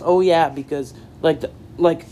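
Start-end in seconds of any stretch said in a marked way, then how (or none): 0.0-0.5 a punchy, all-caps "Oh, yeah,"; emphatic oh yeah. Shown as a demonstration. Fan reading his own tweet, emphatic cheer. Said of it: "saying it emphatic".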